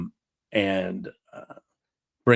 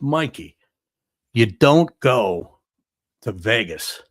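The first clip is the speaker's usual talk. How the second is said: pleading reproach; 6 dB louder, slower than usual. Retold or imitated. Fredo scolding Michael in story.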